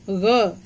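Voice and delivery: ग। said as a voiced throaty gha, not a hard g; Persian gha sound. Shown as a demonstration. Teacher to students, demonstrating the nukta gha. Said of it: "ग के नीचे बिंदी".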